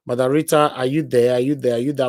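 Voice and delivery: loud call down a dead line. Real, not acted. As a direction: call out to check if she's there. Calling out to absent caller.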